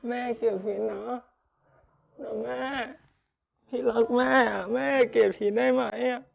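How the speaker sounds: distraught begging, swelling loud in the middle; desperate pleading. Acted. Son begging his mother not to reject him, desperate pleading. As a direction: plead as if afraid of losing her.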